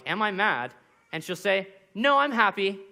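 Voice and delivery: put-on bright child answering; lightly voiced daughter; toddler voice.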